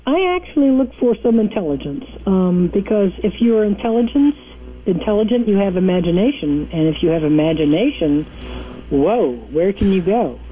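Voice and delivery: distant, off-mic voice; speaking away from the phone; phone held away. Real, not acted. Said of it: "I need you to talk into the phone".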